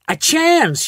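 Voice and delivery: high, loud incredulous yell. A narrator's reading. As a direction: throw the word back in horror. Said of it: "yelled Missus Salt".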